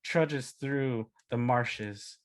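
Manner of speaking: lightly voiced epic barbarian narration; slow, measured voice-over with weighty pauses; hint of a grand saga narrator. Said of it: "uh, V O, it's like".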